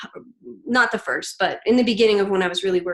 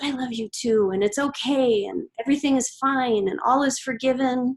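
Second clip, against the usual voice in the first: reassuring; 4 semitones higher than usual. Retold or imitated. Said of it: "and I said".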